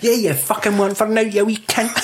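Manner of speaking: high, fast, laughing mock tirade; mock-angry rant. Joking about a ranting dad at the opera, high-pitched and laughing.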